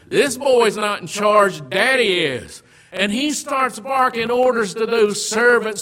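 loud, rising sermon build; fervent pulpit delivery; preaching. Acted. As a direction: preach it out to the congregation. Preaching at full force.

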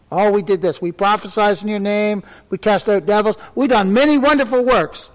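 lightly voiced bragging; mildly mock their proud claims; a hint of boasting believers. Preacher lightly mimicking believers listing their deeds.

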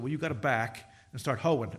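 laughing through the Lord's joke; chuckling mock reply from God; amused punchline. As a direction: deliver the quip with a chuckle. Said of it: "The Lord said".

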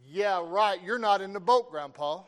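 loud, sarcastic retort; re-enacted shouted comeback; yelling back. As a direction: holler back at grandpa in disbelief. Boy yells back at grandpa.

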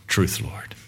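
soft whisper, hushed and humble; a hushed, humble whisper to the Lord; whispered humble plea. Acted. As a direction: breathe it out as a whisper. Woman's humble reply, said twice.

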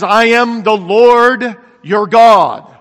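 slow, loud divine declaration; booming proclamation. Acted. Angel visiting Gideon in the pit, booming proclamation. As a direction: proclaim it loudly, drawing out each word.

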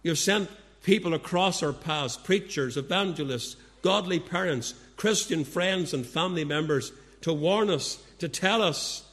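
steady, reverent prayer voice; closing prayer. Acted. Preacher leading the congregation in prayer, reverent. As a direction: speak to God on behalf of the congregation.

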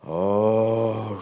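a gasp turning into "oh"; mild cry of recognition. Acted. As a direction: let out a startled little cry. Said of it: "she cried out".

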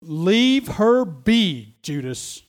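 slow firm rebuke, falling away on Judas; lightly voiced Jesus, stern and slow; Jesus rebuking Judas, slow and firm. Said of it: "He said".

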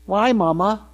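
lightly voiced child's question; a hint of a curious tot, rising at the end; inquisitive tot. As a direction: imitate a little kid asking mama. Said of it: "starting to ask those inquisitive questions".

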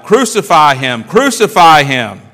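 loud crowd chant, building in force; crying out. Acted. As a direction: call it out like an angry mob. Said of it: "they cried out".

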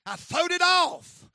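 high, loud, slow triumphant cry; jubilant shout. Retold or imitated. Daddy shouting to his son in the woods. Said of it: "He said".

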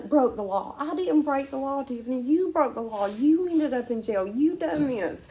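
imitating an insistent scolding; retold rebuke. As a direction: lay the blame squarely, point by point. God's retold rebuke of her.

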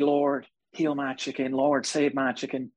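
slow, lightly imitated pleading prayer; mock prayer. Televangelist prays for her injured pet chicken, slow mock prayer. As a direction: plead slowly like the televangelist praying. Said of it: "And I prayed".

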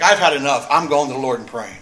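firm resolve, loud at the start; acted-out determination, hitting the opening hard; determined. Hannah resolves to take it to the Lord, acted with determination. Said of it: "It means with determination".

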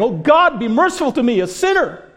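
high, loud pleading cry; crying out to God. Acted. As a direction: beg God for mercy at full voice. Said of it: "he's like a sinner just crying".

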